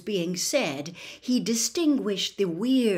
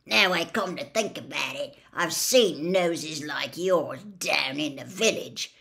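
offensive mutter; 3 semitones lower than usual. Acted. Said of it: "muttered in what was clearly supposed to be an offensive tone".

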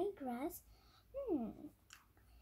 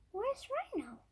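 put-on wise old sage; 10 semitones higher, 3 dB louder than usual. Wise man asks about Rhino.

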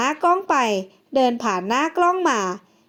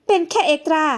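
sneering; 4 semitones higher than usual. Acted. Actress sneers at an extra.

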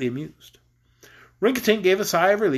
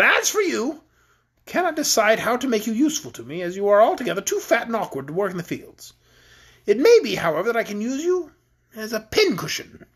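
lightly voiced queen, a little higher; cruel queen; 4 semitones higher than usual. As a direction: toy with the captive, mildly imperious.

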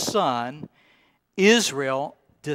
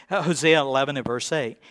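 ordinary delivery

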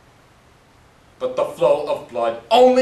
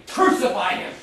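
same cry again but falling back to normal level; retold shout, fading. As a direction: let the mob's chant die off. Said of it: "They just kept shouting".

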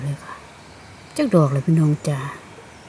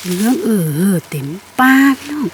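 louder, lit up with delight; delighted exclaim; 3 semitones higher, 6 dB louder than usual. Real, not acted. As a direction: marvel at the whole forest. Forest full of yellow mushrooms.

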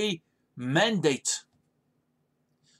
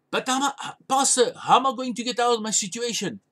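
pleading congregant; 4 semitones higher, faster than usual. Retold or imitated.

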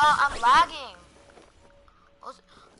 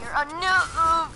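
slow, stretched-out taunt on noob; drawn-out taunt; 3 semitones higher, much slower than usual. Real, not acted. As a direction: drag out the word noob mockingly.

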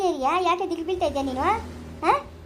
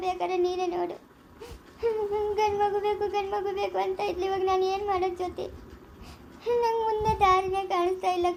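weepy, with sobs between phrases; crying and helpless; tearful lament. Acted. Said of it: "ಸುಮ್ನೆ ಇರಿ, ನೀವು ಅಳ್ಬೇಡಿ".

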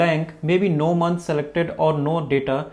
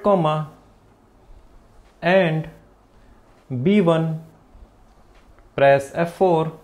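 dictating. Shown as a demonstration. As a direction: read each symbol out with pauses. Dictating formula symbol by symbol.

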